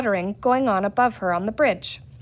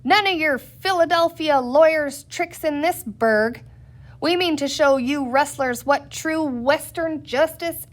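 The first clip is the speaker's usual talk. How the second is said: loud haranguing; 5 semitones higher, 4 dB louder than usual. Acted. Sheriff keeps haranguing crowd.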